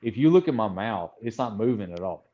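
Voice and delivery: Texan, mouth barely open; true Texan accent. Shown as a demonstration. Showing how Texas talks, closed-mouth Texan accent. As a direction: talk Texan without moving your mouth. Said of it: "you cannot open your mouth at all".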